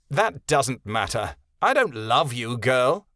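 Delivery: put-on slow, cold dismissal of the girl; a touch of cruelty, unhurried. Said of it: "Winter's words were cruel".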